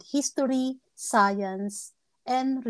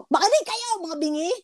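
town crier shout; 8 semitones higher than usual. Retold or imitated.

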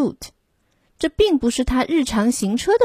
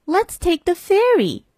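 high, bright voice of a keen mother; lady with the pram urging everyone on; eager lady; 9 semitones higher than usual. A narrator's reading. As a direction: pitch it up with an eager idea. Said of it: "said the lady with the pram".

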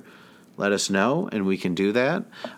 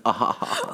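imitated awkward laugh. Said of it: "his laugh just like".

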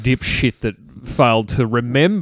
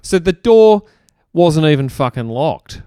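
exasperated; 4 semitones higher, 4 dB louder than usual. Real, not acted.

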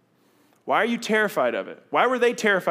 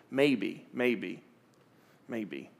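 each maybe lower and softer, trailing to nothing; fading maybe; 6 semitones lower, 6 dB quieter, much slower than usual. Retold or imitated. Preacher voicing a hesitant believer, fading out. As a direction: let the maybes die away into silence.

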